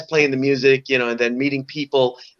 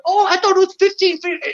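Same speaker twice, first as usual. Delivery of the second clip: eager storyteller. Retold or imitated. Bar patron exaggerating legend.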